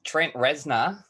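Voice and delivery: The name said in a broad bogan Australian accent. Shown as a demonstration. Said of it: "There you go, in a, a bogan accent".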